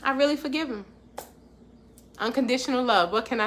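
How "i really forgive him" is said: soft, hushed wonder at finally letting go; quiet realization. Retold or imitated. To listeners, picturing the moment forgiveness lands, hushed. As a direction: breathe it out softly, amazed. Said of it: "you be like".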